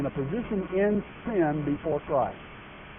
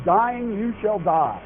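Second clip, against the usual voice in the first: slow, higher-pitched emphasis on "Dying you shall die"; emphatic; 4 semitones higher, slower than usual. Acted. Preacher quoting the Hebrew warning to Adam, "Dying you shall die" said emphatically. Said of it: "That's very emphatic in the Hebrew".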